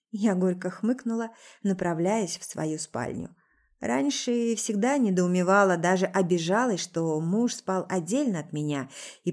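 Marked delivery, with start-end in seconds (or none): none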